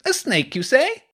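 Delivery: put-on high, booming boy's question. A narrator's reading. Hugo butting in about the snake, booming. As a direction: boom out the question, pitched high. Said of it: "Hugo's voice boomed".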